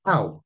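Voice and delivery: sudden demonstrated cry of hurt; mock pain cry. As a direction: yelp as if someone hit you. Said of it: "if you hit somebody, they says".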